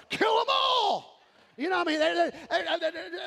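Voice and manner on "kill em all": high, slow hammed-up shout; mock yell. Team owner atop the pile, hammed-up shout. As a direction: bellow it like a crazed team owner. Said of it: "the owner's on the top going".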